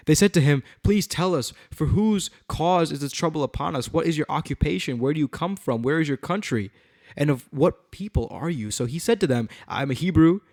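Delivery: animated, emphatic Bible reading; dramatic scripture reading. A narrator's reading. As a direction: read it out to a congregation. Reads scripture aloud.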